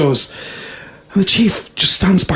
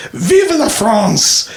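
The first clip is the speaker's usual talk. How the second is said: drawn-out, higher mock French battle cry; mock shout; 4 semitones higher, much slower than usual. Frenchman in a joke before running into the sword, mock shout. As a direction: cry it out slowly, without real volume. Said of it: "the Frenchman shouts".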